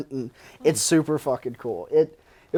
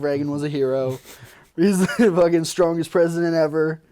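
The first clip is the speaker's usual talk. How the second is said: fired up; 2 semitones higher than usual. Retold or imitated. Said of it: "you get fired up".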